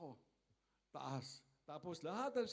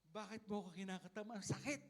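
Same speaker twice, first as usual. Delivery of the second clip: complaining wood; 3 semitones higher than usual. Pretend. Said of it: "Kung makapagsasalita lang yung kahoy".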